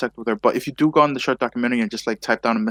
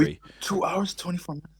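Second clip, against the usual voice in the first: surprised; 7 semitones higher, 5 dB quieter than usual. Real, not acted. Surprised at recording length.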